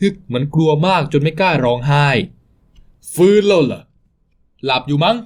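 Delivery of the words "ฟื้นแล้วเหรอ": mocking taunt. Thug taunts the waking captive.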